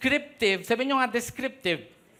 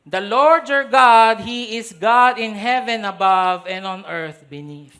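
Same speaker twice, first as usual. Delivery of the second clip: loud, slow proclamation; proclaiming faith; 7 dB louder than usual. Retold or imitated. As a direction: declare it slowly like a confession of faith. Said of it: "she said".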